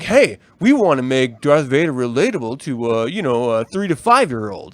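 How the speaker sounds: low, mock-earnest executive pitch; sarcastic mock sales pitch. Mock pitch of the book makers.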